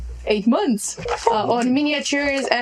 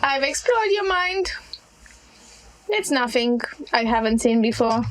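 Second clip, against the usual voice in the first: put-on young hag voice. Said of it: "this almost croaky but not yet matured hag voice".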